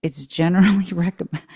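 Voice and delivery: reading through real laughter; can't keep a straight face. Real, not acted. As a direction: try to read it out and crack up mid-word. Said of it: "can't even say it with a straight face".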